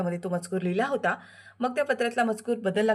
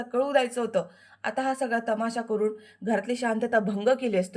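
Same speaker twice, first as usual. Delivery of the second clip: angry warning; 2 semitones higher than usual. Acted. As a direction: warn him one last time. Shilpa threatens Vidyadhar. (विद्याधरला रागाने धमकी देणारी शिल्पा)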